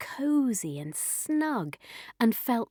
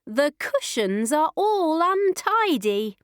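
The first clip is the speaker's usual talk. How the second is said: higher, fussing mother bear; story-time mama bear, pitched up; middle-sized Mummy Bear voice; 6 semitones higher, 3 dB louder than usual. A narrator's reading. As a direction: complain in a raised, lilting voice. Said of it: "in her middle-sized voice".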